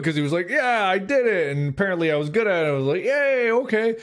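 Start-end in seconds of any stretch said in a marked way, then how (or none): 0.5-1.5 put-on child voice. Child self quoted. 3.0-4.0 put-on child voice. Child self quoted.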